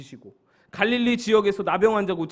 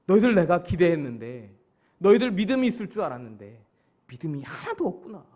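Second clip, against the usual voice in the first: mildly disappointed rebuke; Jesus. Acted. Jesus to disciples who failed his expectations, disappointed. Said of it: "기대가 무너져 버리셨죠".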